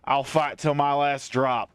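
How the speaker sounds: put-on a light Southern country accent. Soldier answering the lady in a light Southern country accent. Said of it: "I gotta go into country accent now".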